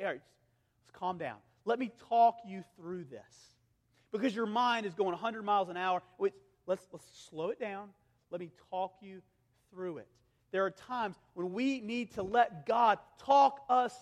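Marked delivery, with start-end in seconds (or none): 0.0-3.6 calming voice. Retold or imitated. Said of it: "someone to come to us and say". 6.2-10.1 soothing. Acted. Preacher models calming someone down.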